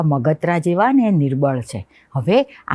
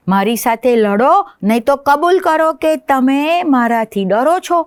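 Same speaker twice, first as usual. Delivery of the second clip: high, raised challenge; mosquito calling out; 9 semitones higher, 3 dB louder than usual. Acted. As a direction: shout up a dare at the big lion. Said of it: "ફરીવાર બૂમ પાડીને કીધું". (મચ્છરનો ઊંચો પડકાર)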